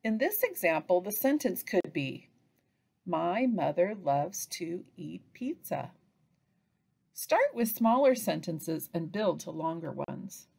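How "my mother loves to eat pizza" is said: slow, separated words; word-by-word pointing. Shown as a demonstration. Teacher points to a line per word, word by word. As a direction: pause a little between the words. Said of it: "Point to each line as you say a word".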